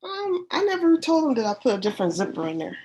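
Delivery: congested, blocked-nose voice; stuffy nose. Real, not acted. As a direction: talk through a stuffed-up head cold. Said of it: "You sound like you might have a cold".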